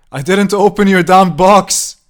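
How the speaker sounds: high, full-force scream; screaming back. A narrator's reading. Harry screaming back through the door at the old woman. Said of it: "he screamed back".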